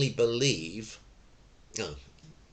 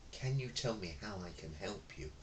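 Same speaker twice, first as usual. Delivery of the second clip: much softer, faster reply; mismatched soft customer-service tone; meek reply to an angry customer; too calm; 4 semitones lower, 15 dB quieter, faster than usual. Shown as a demonstration. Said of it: "I didn't go".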